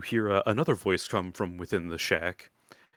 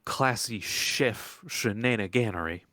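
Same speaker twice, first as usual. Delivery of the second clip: lightly voiced country woman turning strangers away; a hint of a folksy old woman; old swamp woman, dismissive; 3 semitones higher than usual.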